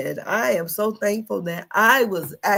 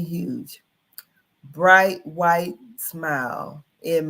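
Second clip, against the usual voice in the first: news read; 2 semitones lower than usual. Acted. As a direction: read the report aloud like a newscaster. Reads news article on stream.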